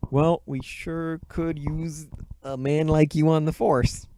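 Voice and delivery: slow, drawn-out police officer; lightly voiced cop. Cop praising Turbo Man, slow mock-officer delivery. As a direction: stretch it out as a mildly hammed-up officer.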